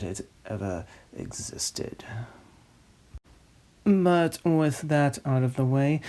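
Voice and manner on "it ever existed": dramatic hushed whisper. Acted. Host whispering the film's fate in a whisper. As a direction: drop to a secret whisper.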